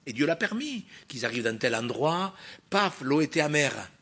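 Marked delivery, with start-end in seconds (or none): none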